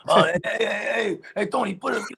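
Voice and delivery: lightly hammed-up Italian mobster accent; retold Italian mob patter, put on; mock Italian-American. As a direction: do a comic Italian-American "hey, hey". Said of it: "Italians are funny".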